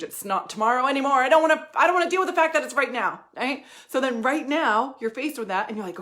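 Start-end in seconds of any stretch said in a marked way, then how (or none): 0.0-3.2 louder, higher burst of resolve; fired-up self-talk. Retold or imitated. Coach voicing a client's sudden resolve, loud and fired up. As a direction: declare it like you finally mean it. Imagined self-realization about changing now.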